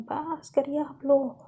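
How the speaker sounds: drawn-out, fed-up protest at little extra volume; understated exasperated shout; mild acted yell. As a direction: cut them off with a restrained cry. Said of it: "लवली एकदम चिल्ला के कहती है".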